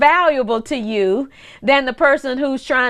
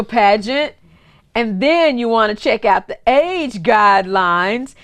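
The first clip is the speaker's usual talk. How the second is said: put-on a mild Wisconsin accent, voice dropped lower; Mister Cameron's Wisconsin accent; 5 semitones lower than usual. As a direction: lightly imitate a kindly Wisconsin friend, low. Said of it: "that's how he talks".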